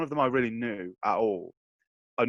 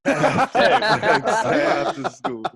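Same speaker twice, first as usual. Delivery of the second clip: laughing through the words, slowly; 11 semitones higher, 9 dB louder, much slower than usual. Real, not acted. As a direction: crack up while saying it.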